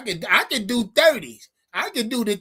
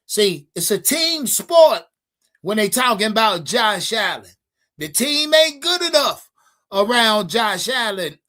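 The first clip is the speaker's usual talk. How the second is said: mocking the critics. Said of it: "So, so they say".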